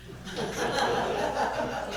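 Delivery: mock sobbing noise; imitated crying outburst. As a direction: burst into a wordless imitation of blubbering. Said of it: "I was, like, snotting and crying".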